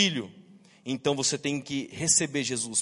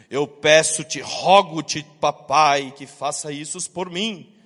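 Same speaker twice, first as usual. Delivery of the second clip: put-on a child flattering his dad in grand words; pompous childish plea; 4 semitones lower, 4 dB louder, slower than usual. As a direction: overblown sung-out plea to daddy, loud. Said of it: "virar pra mim e falar assim".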